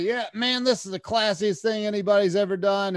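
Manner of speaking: enthusiastic praise. Retold or imitated. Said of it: "And he's like".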